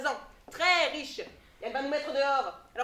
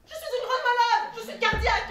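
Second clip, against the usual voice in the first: hammy stage actor; 2 semitones higher, 5 dB louder than usual. Acted. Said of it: "hammy stage actor".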